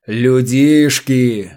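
slow, scornful booming word; contemptuous bass. A narrator's reading. Afanasy scorning the bickering crew, contemptuous bass. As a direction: spit it out in disdain. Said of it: "презрительно пробасил Афанасий".

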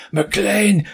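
mock call after a foe; confused Carl calling out. Game master voices revived Carl grabbing his gun, calling out. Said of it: "and just goes".

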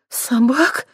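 breathless from running; out of breath. Acted. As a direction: gasp it out while running. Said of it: "задыхаясь, пробормотала Лера". (запыхавшийся вопрос на бегу)

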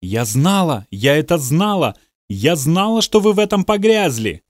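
rising, indignant accusation; indignant outburst. Acted. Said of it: "кипела от возмущения".

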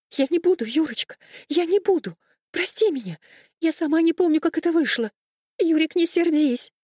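high, loud, desperate begging; pleading in tears. Acted. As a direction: beg him not to be angry, frightened. Frightened wife begging forgiveness.

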